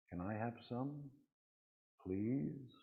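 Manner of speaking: put-on small child asking. Child asking to share candy.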